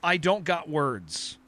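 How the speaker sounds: imitating toddler. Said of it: "he legitimately said".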